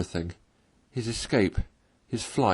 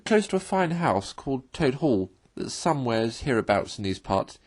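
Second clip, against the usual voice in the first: lightly voiced washerwoman, the question higher and quicker; Toad as washerwoman; 5 semitones higher than usual. Toad in disguise fishes for news of Toad Hall, lightly voiced and eager. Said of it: "replied Toad".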